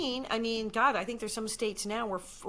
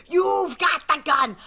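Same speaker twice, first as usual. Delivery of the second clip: high, loud, drawn-out mock alarm; acted shout; 7 semitones higher, 10 dB louder, much slower than usual. Replaying her line from the gun struggle, dramatic shout. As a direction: yell it slowly and dramatically.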